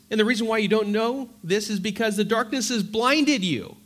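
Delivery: emphatic preaching. Real, not acted. Preacher warning the congregation about hating a brother, with forceful emphasis. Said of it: "I want to say that with emphasis".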